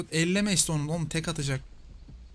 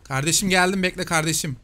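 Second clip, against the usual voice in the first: calling out; 3 semitones higher, 5 dB louder than usual. Real, not acted. Calling out to teammate.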